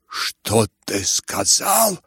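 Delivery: thundering. Acted. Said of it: "загремел генерал".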